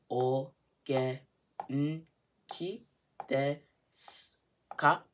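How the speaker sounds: slow separate beats, "s" with no vowel; each syllable spaced out, "s" only hissed; syllables with silent u. Shown as a demonstration. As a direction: sound it out, dropping the u after "s". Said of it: "like that".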